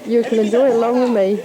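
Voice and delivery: jolted by a bumpy rickshaw ride; talking over the bumps; on a bumpy road. Real, not acted. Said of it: "sorry about the bumpy ride".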